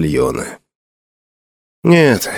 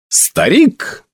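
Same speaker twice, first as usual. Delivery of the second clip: ringing, lofty summons, voice raised; loud solemn call; 9 semitones higher than usual. Acted. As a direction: proclaim it like a herald. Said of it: "громким и торжественным голосом возвестил Алистер".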